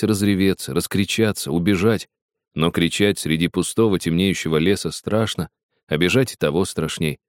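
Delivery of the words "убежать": usual speaking voice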